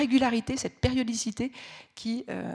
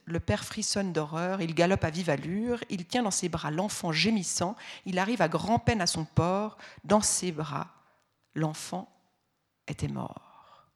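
narrator. A narrator's reading. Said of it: "le narrateur".

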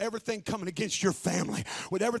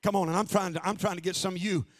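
much softer and lower, musing; hushed reflection; 5 semitones lower, 6 dB quieter than usual. Acted. Pastor musing to the congregation about Paul, hushed. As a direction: pull right back and think aloud.

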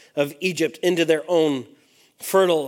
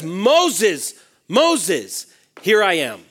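God calling by name; much slower than usual. Acted. Preacher voicing God calling Moses, a touch more insistent. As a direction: call Moses as God would, with weight. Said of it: "Like, hear what he says".

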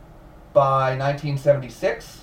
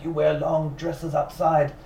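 lightly put-on French accent; a hint of a French husband; 4 semitones higher than usual. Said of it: "That was supposed to be a French accent".

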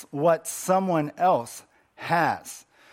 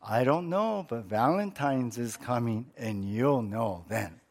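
half-asleep husband; 5 semitones lower, 6 dB quieter than usual. Acted. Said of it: "still half asleep".

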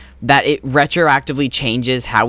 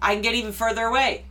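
faint from far across the room; distant, barely heard voice; barely audible; 9 semitones higher, 8 dB quieter, faster than usual. Real, not acted. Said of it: "Stevie rolled very far back".

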